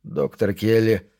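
slow, composed address; measured, neutral calm. Acted. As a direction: say it slowly and evenly, without emotion. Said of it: "произнёс Пендергаст нейтральным тоном".

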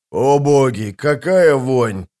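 slow, drawn-out character curse; disgusted swearing. A narrator's reading. Sapper Val reacting to a stench, swearing. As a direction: drag out the disgust. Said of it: "выругался Вал".

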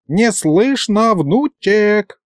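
put-on high, drawn-out old man's call; slow high-pitched wail to a grandson; grandfather hollering. A narrator's reading. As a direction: holler that you can't hear, stretching it. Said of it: "завопил дед".

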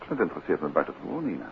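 quick, quiet and unconvinced; unconvincing. Acted. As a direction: brush it off in a hurry. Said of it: "Klinkt ook al niet bijster overtuigend".

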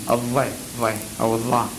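الضي، ضي أو الضاء with the tongue pressed behind the teeth; demonstrating the dad sound. Shown as a demonstration. Teacher showing students the letter dad, carefully articulated. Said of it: "تلاحظ كيف؟".

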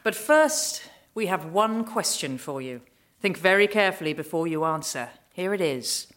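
lounge on each word like a bored aristocrat; lazy arrogant nobleman. Acted. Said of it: "He drawled".

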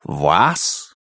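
low, rising dragon question; baffled, deep-voiced beast; puzzled dragon. A narrator's reading. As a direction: check it in deep disbelief. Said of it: "уточнил дракон".

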